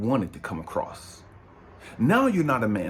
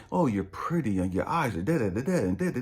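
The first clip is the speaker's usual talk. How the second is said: smooth flatterer; 4 semitones lower than usual. Retold or imitated. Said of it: "tell a young lady".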